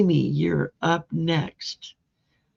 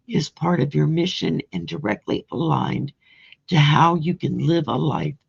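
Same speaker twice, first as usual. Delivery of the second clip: oracle card reading; 4 dB louder than usual. Acted. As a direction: read the card's message like a blessing. Reads oracle card message aloud.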